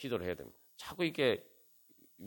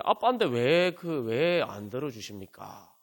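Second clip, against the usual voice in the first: pleading complaint; 3 dB louder, slower than usual. Acted. Believer crying out to God as Dad, pleading complaint. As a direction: slowly plead like an aggrieved child. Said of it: "애들이 부르짖는다고 막 울고".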